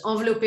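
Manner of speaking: "envelopper" said the French way, nasal en, stress at the end; "envelopper" with French sounds, not English; French word. Real, not acted. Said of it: "if that's a correct word in English".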